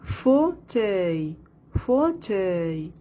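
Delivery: "Fauteuil" in two beats, fau, pause, teuil; split into syllables. Shown as a demonstration. Teacher locating the sound in second syllable, split into syllables. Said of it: "La deuxième syllabe".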